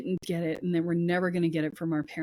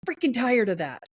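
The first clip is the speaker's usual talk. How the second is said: louder and higher, anger growing line by line; building indignation; 4 semitones higher, 3 dB louder than usual. Pretend. Voicing a fed-up inner self to the host, rising anger. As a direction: let the frustration swell until it's fed up.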